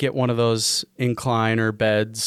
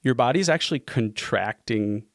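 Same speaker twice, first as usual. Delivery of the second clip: talking while shivering from the cold. Real, not acted. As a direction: voice shaking with shivers. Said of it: "I am shivering".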